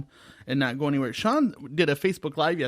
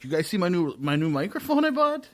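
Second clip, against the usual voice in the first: bragging voice; 4 semitones higher than usual. Retold or imitated. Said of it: "You're like".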